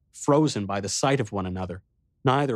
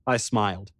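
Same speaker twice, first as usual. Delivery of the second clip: usual speaking voice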